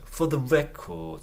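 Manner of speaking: slow "For the record" with "For the" unstressed; small "For the", bigger "record"; weak "For the". Shown as a demonstration. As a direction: keep "For the" weak and lean on "record". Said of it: "弱く弱く".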